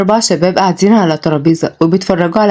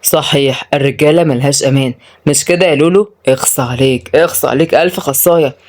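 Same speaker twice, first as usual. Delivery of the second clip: mild mocking reproach; teasing, sarcastic tut-tutting; 4 semitones lower than usual. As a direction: feign disappointment in him, pitched slightly low. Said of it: "وأدهم قال بسخرية".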